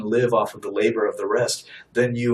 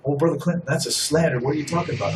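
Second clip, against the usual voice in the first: lightly voiced objector, pitched higher; higher-pitched mock protest from a listener; objecting listener; 4 semitones higher, faster than usual. A listener protests to the preacher, mock objection in a higher voice.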